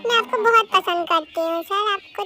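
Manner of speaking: soft, slow, bashful; whisper-soft I love you; shy confession. Acted. (शर्माते हुए प्यार का इज़हार)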